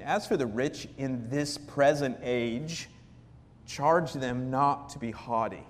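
slow, deliberate verse reading; scripture reading. Acted. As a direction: read the verse slowly and weightily. Reads scripture slowly.

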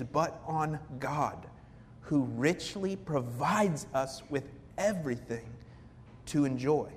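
slow, deliberate verse reading; scripture reading. Acted. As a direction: read the verse slowly and weightily. Reads scripture slowly.

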